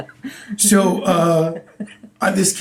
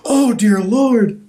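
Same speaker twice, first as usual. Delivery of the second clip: slow mock Australian; 3 semitones higher, much slower than usual. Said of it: "that Australian vernacular".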